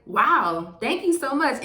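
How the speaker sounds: big theatrical gasp of thanks; overwhelmed wow, hammed up with gratitude; dramatic loud wow. Thanking the clerk who ran out with the rice, dramatically grateful. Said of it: "most appreciative, most dramatic, most loud wow ever".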